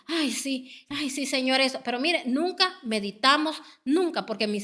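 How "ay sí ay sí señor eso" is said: mock shallow praise. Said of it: "solo en el momento".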